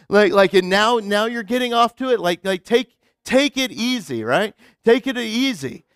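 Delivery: loud, incredulous ranting; mock exasperated disciple. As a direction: push back like a fed-up friend. Disciples' mock rant at Jesus.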